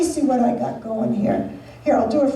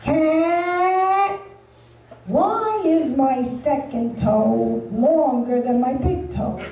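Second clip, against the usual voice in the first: fan question voice. Retold or imitated. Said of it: "You hear shit like this".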